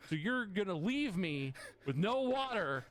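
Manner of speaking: slow, loud, laughing through the words; laughing disbelief. Real, not acted. Telling a friend about being left without water, laughing in disbelief. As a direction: laugh at how absurd it is.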